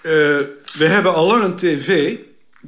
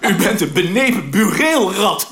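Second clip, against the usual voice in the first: mock-indignant cry, raised pitch, laughter in it; retold insult; 4 semitones higher than usual. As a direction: hurl it as an imitated insult, amused. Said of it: "riep Veerman".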